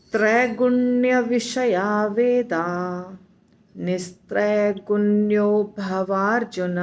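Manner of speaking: slow, careful chant of the verse for pupils to repeat; model recitation. Shown as a demonstration. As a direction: recite each word slowly and distinctly, as a model for students. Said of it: "दो बार उच्चारण करके दिखाती हूँ". (धीमा, स्पष्ट श्लोक पाठ)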